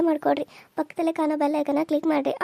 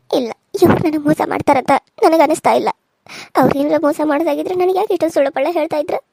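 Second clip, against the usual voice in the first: loud protest; 7 dB louder than usual. Acted. Wife protests husband isn't cheating.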